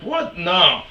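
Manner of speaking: very high squeak, then a loud No; staggered mock disbelief; learning the shower is for meth, shrill shocked disbelief; retold disbelief. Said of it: "and I'm like".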